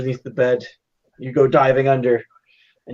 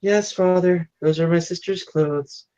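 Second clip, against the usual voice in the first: bashful daughter admitting; 6 semitones higher than usual. Acted. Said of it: "She looks down bashfully".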